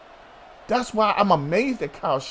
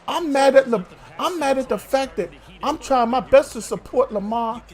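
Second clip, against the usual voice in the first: salty; 4 semitones higher than usual. Real, not acted. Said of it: "I sound salty".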